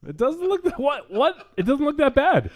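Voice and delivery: high-pitched, laugh-strained protest; cracking up. Real, not acted. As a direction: squeal the defence while fighting off laughter. Cracking up over the costume picture.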